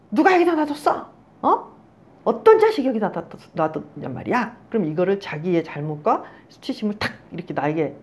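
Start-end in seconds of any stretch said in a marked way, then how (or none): 0.1-4.5 acted accusation, high at first, dropping at the end; mock angry blaming. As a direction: imitate someone hunting for a culprit. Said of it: "자기애적인 사람들이 이렇게 자기가 잘못했잖아요".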